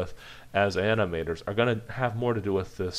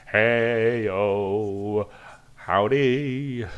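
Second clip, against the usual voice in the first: loud, higher, friendly cartoon hello; cheerful character greeting; 3 semitones higher, 7 dB louder, much slower than usual. Shown as a demonstration. Cartoon character hailing a pal, loud and cheery. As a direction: call out a breezy hi to a friend. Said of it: "a character who's kinda like".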